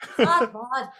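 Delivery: mock Canadian slang. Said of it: "Eastern Canadian for sure".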